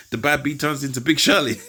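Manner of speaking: said through a laugh. Real, not acted. Joking about the bad bee turning into Big Shirley, laughing. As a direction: let amusement break into the words. Laughing at his own remark.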